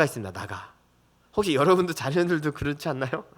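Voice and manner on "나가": low, much softer muttered get-out; quiet grumble. Retold or imitated. Father imitates daughter's usual muttered get-out, quiet. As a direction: mutter it like a sulky kid. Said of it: "흔히 하는 말".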